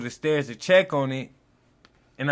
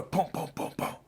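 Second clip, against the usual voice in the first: imitated door banging; 11 dB quieter than usual. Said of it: "I hear a bang on the door".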